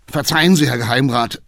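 loud apologetic cry; exclaiming. Acted. Coachman loudly apologizes to the councillor. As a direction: call out an apology. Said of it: "rief er aus".

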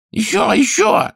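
high, whining king voice; nasal whining king. A narrator's reading. King urging the squatting healer, nasal whine. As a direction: whine it through the nose like a spoiled king. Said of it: "гнусавил король".

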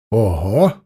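mock teasing wow; husband teasing wife about first-sight love, mock surprise; surprised exclamation. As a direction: feign amazement. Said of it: "воскликнул Лёшка".

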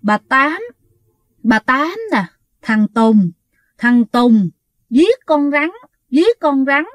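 strained, halting possessed voice, lightly imitated; Bà Tám. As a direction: force out short fragments with a pause after each. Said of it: "nói giống như là lắp ba lắp bắp". (giả giọng hồn nhập, rặn từng tiếng)

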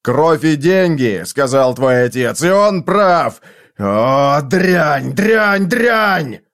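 builds to a shouted curse; rising fury ending in a shout; furious outburst. Acted. Foyle rages at Olivia.

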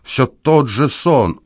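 put-on old man recoils from his dream in theatrical dread; operatic despair. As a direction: stretch every word as if on stage. Old man staggers out in terror.

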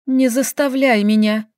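ordinary delivery

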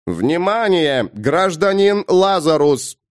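slow, drawn-out robot announcement; booming metallic robot. Acted. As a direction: boom it out like a machine. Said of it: "громкий металлический голос".

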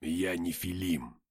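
slow, even, composed statement; unhurried, steady character voice; calm reply. A narrator's reading. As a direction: answer calmly and deliberately. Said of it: "спокойно ответил Деймос".

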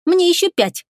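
put-on a touch of a little boy insisting; lightly voiced five-year-old; small boy. A narrator's reading. Small boy pleads his age.

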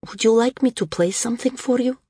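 lightly voiced young singer, pleasant and lilting. A narrator's reading. Young singer offering the old woman music, pleasant lilt. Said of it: "His voice was pleasant, lilting".

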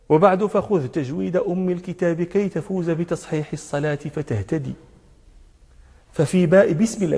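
low, soft recitation of verse; didactic verse recital. Shown as a demonstration. Teacher quoting a tajweed poem to his students, low verse recital.

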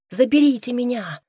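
high, desperate cry for help; frantic scream. A narrator's reading. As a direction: scream it up through the hatch. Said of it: "истошно закричала она на идиш".

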